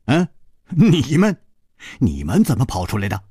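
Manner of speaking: quick, startled counter-question; blurting out in surprise. Acted. Chu Liuxiang surprised to meet his friends, blurting out the question. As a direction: fire the same question straight back. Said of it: "楚留香也失声说".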